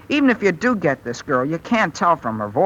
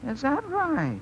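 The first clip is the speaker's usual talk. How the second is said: hushed; 8 semitones higher, 9 dB quieter, slower than usual. Acted. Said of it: "would you mind talking so I either can hear you".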